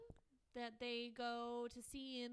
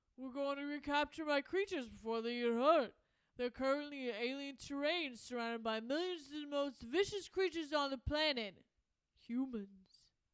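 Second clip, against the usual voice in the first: loud, belted-out put-on British accent; 2 semitones higher, 9 dB louder than usual. Voicing Rocky's lines about recapturing creatures: Rocky voice, British accent. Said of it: "I don't know if I should do a British accent as Rocky voice. No, I'm just going to do it".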